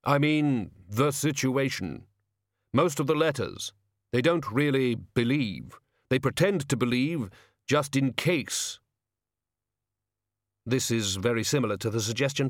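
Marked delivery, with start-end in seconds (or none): 0.0-8.8 slow, deliberate solemn figure; slow heavy voice. Acted. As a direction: weigh each word heavily. Hooded figure talking.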